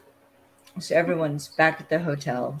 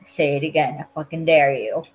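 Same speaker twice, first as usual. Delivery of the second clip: acted-out challenge, louder on the dare; retold threat with some punch; daring attitude; 4 dB louder than usual. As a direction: dare them to repeat it. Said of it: "it's the attitude of".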